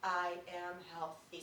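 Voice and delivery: slow, each syllable spaced out; slow, deliberate affirmation. Shown as a demonstration. Teacher leading a class in slow affirmation. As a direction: say it slowly, one syllable per finger. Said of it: "we're gonna say this together out loud".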